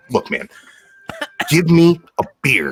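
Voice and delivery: bear's demand. Acted. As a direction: bark the demand like an angry bear. Bear demands a beer.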